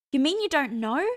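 high, loud disbelief; can't believe he doesn't know; incredulous girl. A narrator's reading. Hester gaping at Cass, incredulous and high.

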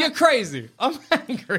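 demo line. Shown as a demonstration. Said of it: "I'm gonna try that move".

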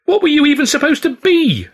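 loud, very high furious demand; angry shout. A narrator's reading. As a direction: shout the question. Angry argument in dressing room.

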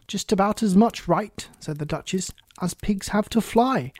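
put-on a chatty, fussy old duchess. Duchess voiced in story.

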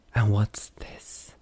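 breathy slow whisper; gasped whisper. A narrator's reading. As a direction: gasp the question in a whisper. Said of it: "she gasped loudly".

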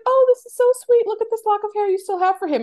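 high, loud cooing over a keepsake; retold sweet gushing in a high voice; imitated gushing. Acting daughter-in-law gushing over keepsake.

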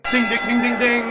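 high loud ding ding; bell imitation. Ringing the fight bell.

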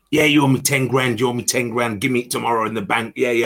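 lightly voiced cocky Cockney on the phone. New player brags on the team bus in a Cockney accent. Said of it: "in his Cockney voice".

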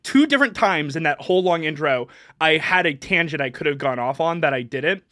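ordinary delivery

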